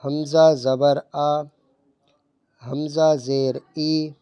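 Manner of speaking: slow, even vowels, no jerk or stretch; حمزہ زبر آ read short and steady; correct drill reading. Shown as a demonstration. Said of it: "پڑھیں".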